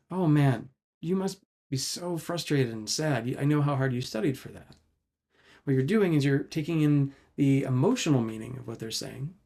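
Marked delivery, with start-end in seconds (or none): 0.1-4.8 empathic reply. Shown as a demonstration. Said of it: "say something like".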